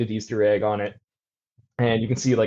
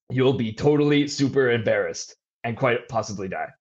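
eerie voice. Acted. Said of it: "the voice".

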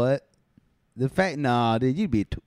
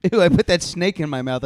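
louder, higher fake disgust; hammy gross-out, pitched up; mock disgust; 6 semitones higher, 5 dB louder than usual. Acted disgust.

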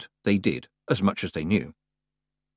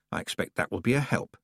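weakly; 5 dB quieter than usual. Acted. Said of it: "said Tiffany weakly".

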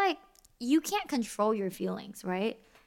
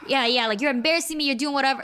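imitated accusing rant, a bit loud; half-acted confrontation; coming at a partner swinging, mock anger; mock angry partner; 4 semitones higher, 4 dB louder, faster than usual. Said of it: "You come at them swinging".

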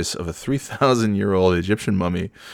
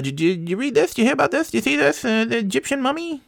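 excited high-pitched question; faster than usual. Real, not acted. Excited question about mummy.

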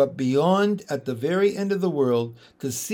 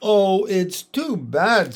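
sobbing; 4 semitones higher, 4 dB louder, slower than usual. Acted. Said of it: "sobbed Lucy".

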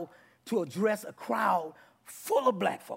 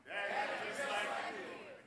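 much softer, hushed repeat; soft echo; 14 dB quieter than usual. Shown as a demonstration. Pastor echoing the declaration, softly. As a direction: let it fall to a hush.

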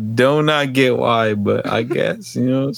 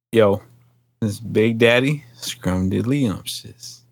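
Big Daddy voice. Shown as a demonstration. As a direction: drag the name out like a smooth Big Daddy. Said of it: "That wasn't good enough".

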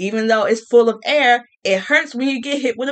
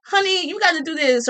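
patronizing, pitched up; sweetly bossy, talking down; condescending honey; 6 semitones higher than usual. Retold or imitated. Mocking a date who condescendingly calls her honey. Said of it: "condescendingly calling me honey".

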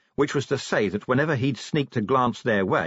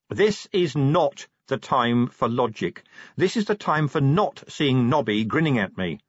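higher, emphatic irritated sergeant; exasperated Angua; 4 semitones higher than usual. Acted. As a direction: put your foot down, pitched up.

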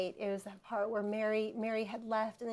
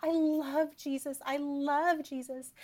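lightly voiced little girl, higher; quoting her daughter; 5 semitones higher than usual. Mom imitating her daughter Faith, a hint of a child. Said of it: "she's just like".

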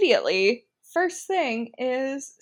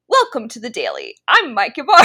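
podcast host voice; 7 dB louder, faster than usual. Retold or imitated. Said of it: "I thought I sounded like the".

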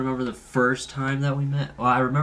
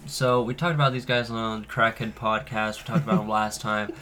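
stuffed-up nasal voice; blocked nose. Real, not acted. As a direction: talk through a blocked nose. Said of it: "I'm stuffed up".

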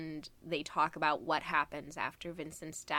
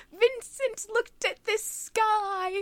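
tearful imitated exclamation, much higher and louder, slow; retold crying shout; 6 dB louder, slower than usual. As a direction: mimic a friend sobbing out her wonder. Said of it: "like, crying".

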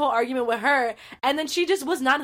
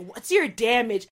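slow, level, needling question; pointed jibe; slower than usual. Retold or imitated. Sister pushing her buttons, slow cool jibe. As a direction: ask it slowly and coolly to provoke. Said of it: "it's the way she was like".

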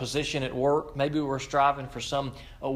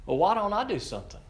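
self-questioning; 6 semitones higher, faster than usual. Retold or imitated. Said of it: "asking is to myself".

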